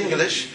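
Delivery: "Yingalish" with a Y sound in front and an extra middle syllable; Yiddish-style pronunciation. Shown as a demonstration. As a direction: say "Yingalish", three syllables starting Ying-. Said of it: "as they say".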